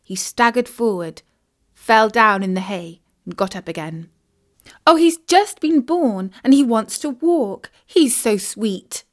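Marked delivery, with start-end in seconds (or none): 4.8-9.1 high, delighted gush; excited exclaim. Acted. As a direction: coo over the newborn foal. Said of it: "exclaimed Isis".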